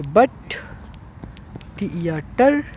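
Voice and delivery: "but", a pause, spell "T E R", then "टर"; teacher sounding out "but ... टर" piece by piece; split into syllables. Shown as a demonstration. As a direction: break butter into "but" and "टर". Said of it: "ये एक syllable होते हैं".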